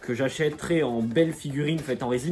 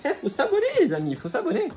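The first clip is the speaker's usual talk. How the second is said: laughing. Real, not acted. Laughing call to subscribe.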